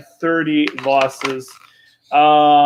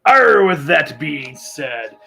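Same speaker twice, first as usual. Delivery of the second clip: pirate voice. Pretend. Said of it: "I'm still talking like a pirate".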